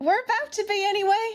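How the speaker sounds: shouting. Playing Cass in a game, the player answers a goblin by shouting back. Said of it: "Cass shouts back".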